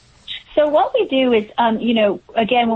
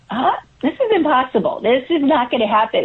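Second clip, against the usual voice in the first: mock disbelief; 3 semitones higher than usual. Mother recalling moments of overwhelm, mock disbelief. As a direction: retell your own overwhelmed protest in a raised voice.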